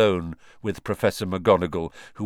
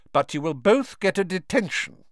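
put-on stern old professor; 10 semitones higher, 3 dB louder than usual. A narrator's reading. McGonagall voiced.

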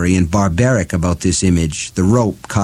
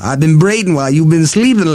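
higher cackling witch voice; 7 semitones higher, 3 dB louder than usual. Acted. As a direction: gloat with a cackle. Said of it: "She cackled again".

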